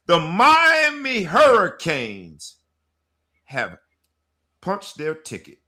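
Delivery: slow, loud, high team name call; hype announcement. Acted. Host hyping the team's title shot, slow and loud. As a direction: stretch the name like a stadium announcer. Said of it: "hyping the team".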